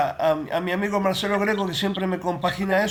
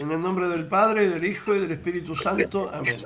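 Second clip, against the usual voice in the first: prayer recitation. Acted. Leads a spoken prayer.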